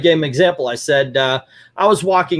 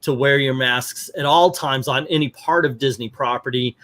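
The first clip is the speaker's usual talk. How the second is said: polite staff request. Shown as a demonstration.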